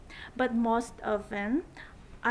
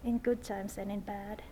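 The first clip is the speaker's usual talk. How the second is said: saying wedding vows; 3 semitones lower than usual. Real, not acted. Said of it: "would you repeat after me?".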